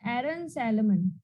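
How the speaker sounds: "एरन सैलमन" said slowly and deliberately, each syllable clear; slow correction. Shown as a demonstration. Teacher correcting a mispronounced name for the students, slow and clear. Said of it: "एरमन".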